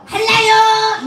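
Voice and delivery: put-on high, loud Jeolla-accented call; Jeolla dialect. Repairman phones, switched into a Jeolla accent. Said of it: "한량교를 전라도 말로".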